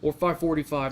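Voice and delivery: lightly voiced mother, up-then-loud "Oh" leading into her changing mind; a mild send-up of mom fussing over her alarm time; mock mom voice. Son mimicking his mom's alarm requests, lightly mocking.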